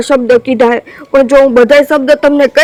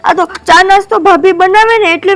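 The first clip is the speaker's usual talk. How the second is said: higher upset protest; 5 semitones higher than usual. Acted. Wife protests tearfully.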